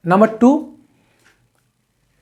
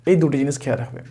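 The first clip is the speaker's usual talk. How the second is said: softer repeat; 6 semitones lower, 6 dB quieter than usual. Shown as a demonstration. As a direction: lower and softer, letting it sink in. Repeats the key advice softly. (নিচু ও নরম স্বরে পুনরাবৃত্তি)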